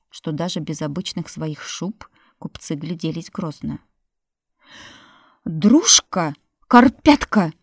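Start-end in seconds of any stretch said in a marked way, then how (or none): 5.4-7.5 wailing call. Acted. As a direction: bellow for the servants. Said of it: "возопила Марфа".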